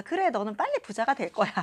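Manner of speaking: imitating mother's amused encouragement; lightly amused echo, chuckle at the end; laughing agreement. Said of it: "엄마가 막 웃으면서". (웃으며 맞장구치는 엄마 흉내)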